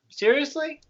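a high, incredulous "Seriously?"; can't believe it, fed up; retold exasperation at being sent to the next window; exasperated disbelief. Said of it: "I'm like".

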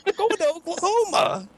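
high, odd mock shout; mock yell. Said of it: "I'm, like, screaming at this guy".

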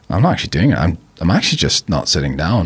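calmly retold refusal, voice kept even; calm retelling. Son standing up to his dad, calm. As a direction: state it calmly, without getting triggered. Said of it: "I stayed calm instead of triggered".

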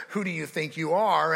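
a mild accusing sneer from the devil; lightly voiced mocking challenge; accuser's taunt. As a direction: throw the question at them like an accusation. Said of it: "he accuses us".

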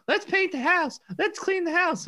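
high mock-nagging wife voice. Imitating his wife pestering him with chores, high nagging voice. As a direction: squeak it like an insistent nag. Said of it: "She'll be like".

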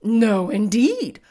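loud, slow straw-man lament; sad scarecrow. A narrator's reading. Scarecrow admitting he has no brains, sad. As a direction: confess it plaintively, drawn out. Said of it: "he answered sadly".

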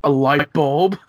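a hint of an overblown mystery-show voice; mock documentary narrator. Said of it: "the same tone of the way he says it".

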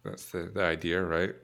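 talking while chewing. Real, not acted. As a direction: mouth full of chips. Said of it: "Excuse my chewing noises".

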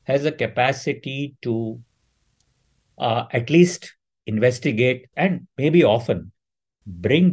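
careful, spaced-out phrasing; slow, deliberate. Real, not acted. Speaker conceding challenges before making the claim, slow and deliberate. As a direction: pick the words slowly and carefully. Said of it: "and I say this slowly".

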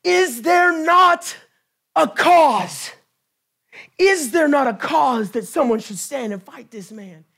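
a hint of David squaring up to the giant; David's bold challenge. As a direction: fling out the challenge like young David. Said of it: "And he says".

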